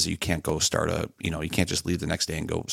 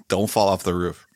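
laughing warning. Real, not acted. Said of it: "laughing warning".

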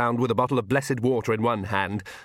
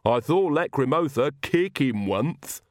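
slow, dark lisping servant; 4 semitones higher, slower than usual. Acted. Igor tells on Lacrimotha to the visitors, darkly. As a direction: lisp it slowly with disapproval. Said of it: "said Igor darkly".

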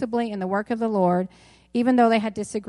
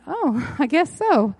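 high, louder "oh" breaking into a laugh; laughing reply; 6 semitones higher, 5 dB louder, slower than usual. Retold or imitated. Newly engaged person answering the pastor's blunt question, laughing and high-pitched. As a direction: retell a taken-aback reply through laughter.

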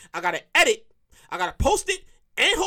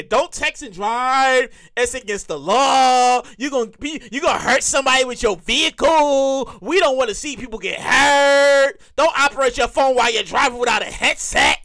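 public service ad; 2 semitones lower than usual. Retold or imitated. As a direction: mimic a preachy safety ad, stretching each line end. Mimicking public safety commercials.

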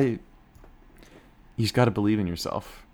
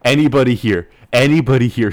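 calling out; 4 semitones higher, 13 dB louder than usual. Acted. Calling out to audience.

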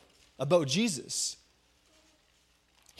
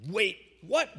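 shocked wait what; 2 semitones higher than usual. Shown as a demonstration. Preacher demonstrating the crowd's line, surprised. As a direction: demo for the group. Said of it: "On the count of three".

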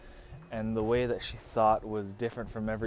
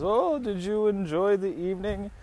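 raised, put-on dad voice; imitated dad; 8 semitones higher than usual. Dad pops up on the couple on the couch, imitated dad. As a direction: play the girlfriend's dad, pitched high. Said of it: "and he says".

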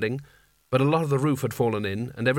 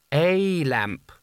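much higher, slow, ornate courtly sultan; florid Seraph voice; 3 semitones higher than usual. Acted. The Seraph answering Kanina's plan, high and flowery. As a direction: flatter her lavishly while pointing out the flaw.

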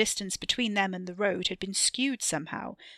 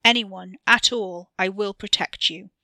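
loud; 8 dB louder than usual. A narrator's reading. Katie vows to protect family.

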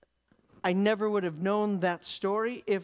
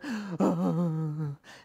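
imitated sob. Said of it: "I've been crying now for".

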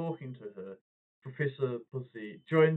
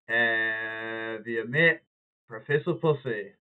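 mock smooth introduction; 3 dB louder, much slower than usual. Slow smooth wingman introduction.

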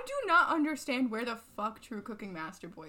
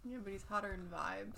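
whispering; 4 semitones lower, 12 dB quieter than usual. Real, not acted. Whispered aside.

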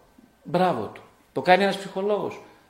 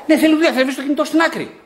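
laughing; 10 semitones higher, 7 dB louder, faster than usual. Real, not acted. Laughing jokey exchange with audience.

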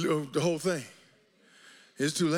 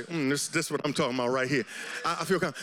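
relieved calm; 11 semitones lower, faster than usual. Retold or imitated. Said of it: "you say".

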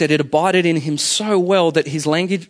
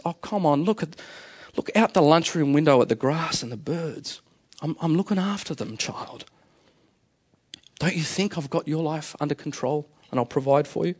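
softer, tender reassurance; gentle reassuring voice; 6 dB quieter than usual. Retold or imitated. God's voice calms the anxious worker, soft and tender. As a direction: soothe a worried child. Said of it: "this wonderful voice says".

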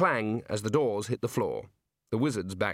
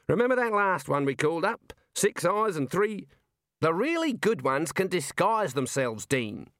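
higher-pitched wizard, stretching phrase ends; argumentative wizard; 6 semitones higher than usual. Acted. Wizards debate the man they summoned, argumentative.

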